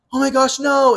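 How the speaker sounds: high, loud imitated dismay; mock alarm. Friend seeing her pal walk off crying, mock alarm. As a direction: cry out like a friend in mock distress.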